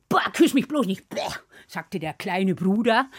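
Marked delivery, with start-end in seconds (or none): 0.1-1.3 a slightly raised, grossed-out protest; mild disgust. Acted. Little brother fending off sister's grateful kiss, disgusted. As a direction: recoil lightly from an unwanted kiss.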